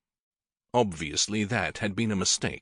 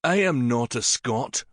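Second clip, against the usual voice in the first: mild snarl; 2 semitones higher, 3 dB louder than usual. Acted. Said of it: "Syn snarled".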